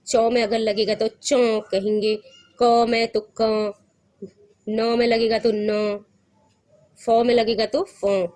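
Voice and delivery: teacher drilling nasal vowels; chandrabindu demo. Shown as a demonstration. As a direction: sound each vowel through nose and throat. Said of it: "नाक और गले दोनों से होता है".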